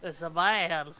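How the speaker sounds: surprised. Pretend. Astonished at a person.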